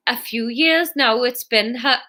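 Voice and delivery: slow Welsh lilt, broken off; drawn-out Welsh-accented try; Welsh accent attempt. Narrator retries Fiona's answer, slow Welsh accent.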